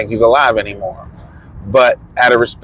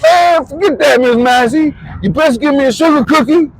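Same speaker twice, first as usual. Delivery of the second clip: imitating Thurman; 13 semitones higher than usual. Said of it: "He's like".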